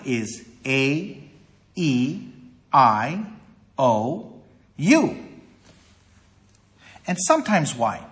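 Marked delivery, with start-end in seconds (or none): 0.6-5.2 long A, E, I, O, U, each set apart; long vowel sounds. Shown as a demonstration. Teacher listing long vowels for the class, each sounded separately. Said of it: "A long vowel, for example".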